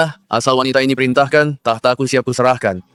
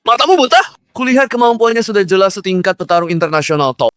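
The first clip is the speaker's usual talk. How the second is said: angry; 4 semitones higher than usual. Acted. Fighter scolds his boss.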